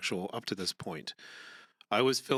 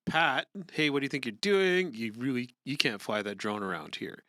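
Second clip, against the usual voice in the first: angry neighbor; 3 semitones higher than usual. Acted. Reading angry neighbor's lines.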